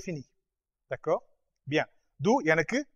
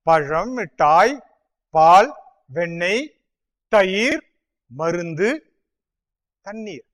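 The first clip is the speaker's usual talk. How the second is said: review list; 6 dB louder than usual. Shown as a demonstration. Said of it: "Et cetera".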